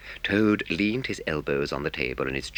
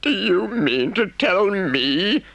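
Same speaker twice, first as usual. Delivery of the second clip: shouted; 8 dB louder, much slower than usual. Acted. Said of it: "shouted the Rat".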